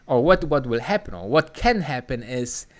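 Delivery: ordinary talk, nothing marked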